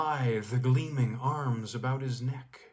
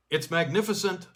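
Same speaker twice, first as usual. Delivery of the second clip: louder, higher exclamation; cried out; 6 semitones higher, 5 dB louder than usual. Acted. Skier cries out to the girl, loud wonder. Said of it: "I cried".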